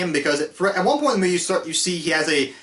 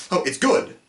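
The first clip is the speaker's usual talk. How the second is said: imitating Maxwell Lord. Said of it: "him going".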